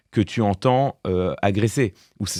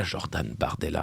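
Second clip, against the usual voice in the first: grave affected anchor voice; 6 semitones lower, 11 dB quieter than usual. Retold or imitated. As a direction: lower and much softer, mock solemn address. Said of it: "avec sa voix grave, empruntée, sinistre, affectée".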